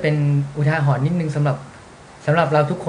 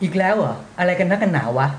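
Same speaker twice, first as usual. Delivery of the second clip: imitating annoyed boss; 2 semitones higher than usual. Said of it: "คือพูดแบบเนี้ย".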